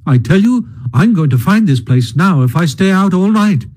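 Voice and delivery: hearty, lightly voiced Rat; heartily. Rat insisting on finding Mole's home, hearty and cheerful. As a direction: cheer him up with firm good humour. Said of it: "said the Rat heartily".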